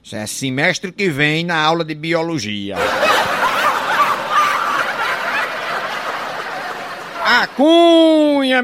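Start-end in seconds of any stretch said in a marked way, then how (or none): 2.8-7.2 high breathless laugh. Real, not acted. Comedian laughing at own joke. 7.3-8.6 stretched-out high call of "A Cunha"; catchphrase shout. Acted. Comedian opening a joke with a long drawn call.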